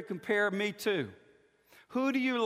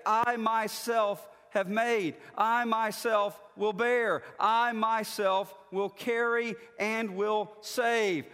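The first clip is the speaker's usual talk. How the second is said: slow, with each "I myself" stressed; emphatic; 3 semitones higher, 4 dB louder, slower than usual. Shown as a demonstration. Pastor showing the emphatic Hebrew, each "I myself" stressed. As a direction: hammer every "I myself", slowly. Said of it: "every one of these is emphatic".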